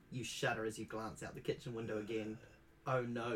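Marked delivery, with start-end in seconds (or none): none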